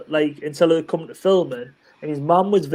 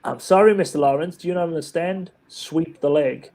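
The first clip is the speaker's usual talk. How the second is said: stern sensei. Acted.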